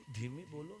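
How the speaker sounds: quiet her down gently; soft hush. Acted. Saint telling the woman to speak softly, hushed.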